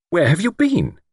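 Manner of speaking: high, impatient question. A narrator's reading. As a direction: press for an answer with mounting impatience. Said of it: "repeated her question impatiently".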